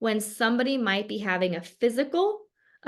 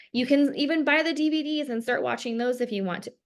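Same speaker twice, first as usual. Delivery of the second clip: talking through a burp; a burp catching the words; 4 semitones higher than usual. Real, not acted. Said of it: "I am burping".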